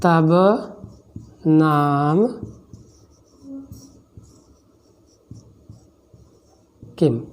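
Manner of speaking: each word alone, long gaps between; slow dictation for someone writing along. Shown as a demonstration. Teacher dictating a Sanskrit question to students, spaced word by word.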